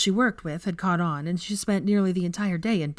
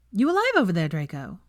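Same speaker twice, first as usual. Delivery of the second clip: teasing Veronica. Acted. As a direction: poke the dazed man.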